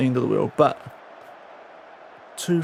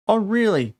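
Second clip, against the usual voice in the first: high mock-surprised Oh, really; sarcastic disbelief at bad news; sarcastic surprise; 7 semitones higher than usual. Real, not acted. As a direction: act fake-shocked at the news. Sarcastic reaction to league drop.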